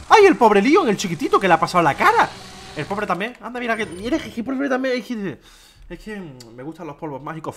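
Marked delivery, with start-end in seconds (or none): 0.1-2.3 higher, louder cry of pity; mock-tender exclamation over the chiquitito. Real, not acted. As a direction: coo sorrowfully over poor Leon. Pitying the game character.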